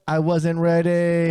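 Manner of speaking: slow, drawn-out Kevin Hart line; Kevin Hart impression. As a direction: stretch it out slowly like Kevin Hart. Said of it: "This reminds me of a Kevin Hart stint".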